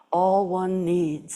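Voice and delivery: a hint of a slow English accent. Teacher quoting her root teacher in a light English accent. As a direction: lightly voice an English gardener, slowly. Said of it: "in his inimitable, um, English accent".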